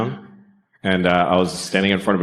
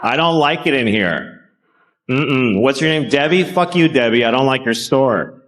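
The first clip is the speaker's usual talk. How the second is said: mean customer; 4 semitones higher than usual. Pretend. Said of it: "just go like".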